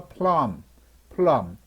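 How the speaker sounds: plum with a short uh vowel; demonstrated short U in plum; short U sound. Shown as a demonstration. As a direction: say plum with an open uh. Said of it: "U는 어 소리가 나죠".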